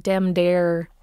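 TH hardened to D in "dem dare", drawn out; rural D for TH. Shown as a demonstration. Coach showing the rural D-T-H thing, hard D for TH. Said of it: "that D T H thing".

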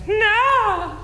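high, sharp outraged no; a heckler's sudden high protest; mock shout no. Woman in the audience objecting, high outraged no. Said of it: "was like".

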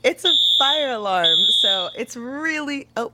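shouting over fire alarm. Real, not acted. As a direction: call out loud over the ringing.

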